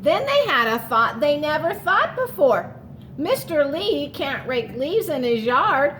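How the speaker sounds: storybook read-aloud to the class; reading to children. A narrator's reading. Teacher reading a picture book to her class, storytelling voice.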